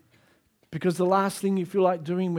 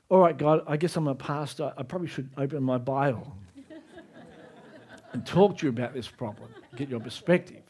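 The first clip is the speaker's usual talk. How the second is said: chuckling through the words; laughing; 4 semitones lower, 3 dB quieter, faster than usual. Retold or imitated. Pastor admitting he should open his Bible, laughing. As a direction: laugh at yourself while praying. Retells sheepish prayer with laugh.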